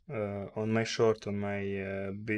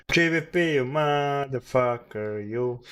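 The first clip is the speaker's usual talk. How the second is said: angry curse; 2 semitones higher, 4 dB louder than usual. Real, not acted. Cursing the pound chart again.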